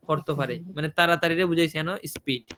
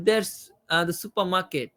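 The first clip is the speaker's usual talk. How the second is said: "supermarket" as the answer, then a brief break; slight break after answer; much slower than usual. Shown as a demonstration. Teacher demonstrating the listening cue, "supermarket" followed by a light break. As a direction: land on "supermarket" and pause lightly before going on. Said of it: "হালকা একটু break দিব".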